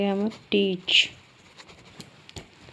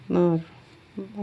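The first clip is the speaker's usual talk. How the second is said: drawn-out syllable; much slower than usual. Shown as a demonstration. Teacher slowly sounding out a shorthand syllable. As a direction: stretch the word out very slowly. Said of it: "एम आर की आ रही है मार".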